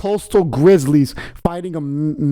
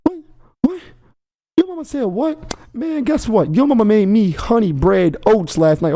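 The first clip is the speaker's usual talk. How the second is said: high mocking trash talk, hyped up; voicing a trash-talking bear; 4 semitones higher than usual. Voicing the bear mid-fight, teasing his rival's mama in a high mock trash talk. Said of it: "he's like".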